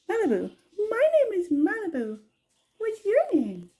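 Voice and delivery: high-pitched parrot imitation. Owner echoing her parrot Malibu, high parrot voice. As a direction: squeak it up like the parrot.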